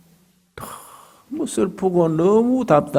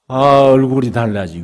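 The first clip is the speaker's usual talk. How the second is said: usual speaking voice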